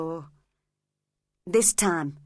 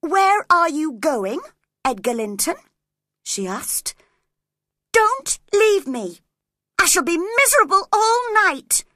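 desperate plea; 11 semitones higher, 8 dB louder than usual. Acted. Catherine begging Edgar to stay.

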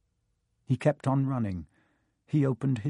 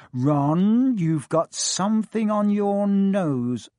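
fussing mother; 6 semitones higher, 4 dB louder, much slower than usual. A narrator's reading. Mother fusses.

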